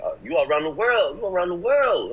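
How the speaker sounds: a hint of the cousin hyping him up; imitating cousin. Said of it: "he's like".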